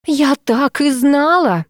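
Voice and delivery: a jealous wail, dragged out. A narrator's reading. Masha bursts into the bedroom, wailing. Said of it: "завопила она".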